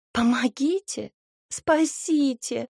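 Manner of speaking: frightened maiden fleeing toward them; desperate cries. A narrator's reading. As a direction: beg to be saved, drawn out. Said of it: "Голос девушки приближался".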